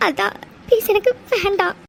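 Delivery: quietly pleading through tears; soft tearful plea. Acted. Refusing the saree from him, softly tearful. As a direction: beg him softly, nearly crying. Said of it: "please டி, அழாத".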